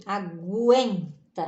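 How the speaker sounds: "aguenta" slowly, with a w glide after the g; teacher breaking up "aguenta"; audible U. Shown as a demonstration. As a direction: stretch "guen" in "aguenta" as gwen. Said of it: "Aqui a gente tem até o sonzinho da letra".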